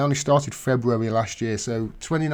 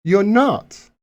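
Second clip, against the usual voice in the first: put-on girlfriend; 6 semitones higher, 7 dB louder, much slower than usual. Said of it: "She says".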